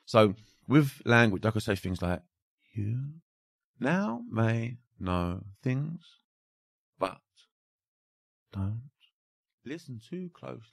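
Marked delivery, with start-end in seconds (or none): 2.7-10.6 slow, soft hypnotist voice with long pauses; hypnotic trance voice. Shown as a demonstration. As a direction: lull them, word by word, into trance. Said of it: "it's a weird sort of voice I'd use".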